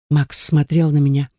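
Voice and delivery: ordinary delivery, nothing marked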